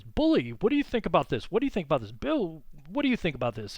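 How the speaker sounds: pepper the room with eager questions as Teddy; Teddy Roosevelt impression. Teacher imitating Teddy quizzing Taft in meetings, booming. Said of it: "He would talk like this".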